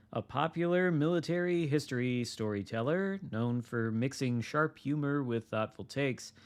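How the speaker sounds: upbeat announcer read; news read. Acted. Reading patch notes aloud.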